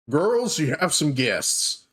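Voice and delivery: lightly voiced call to the back room. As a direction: call the girls out, high start then drawn out. Innkeeper calls out to back room.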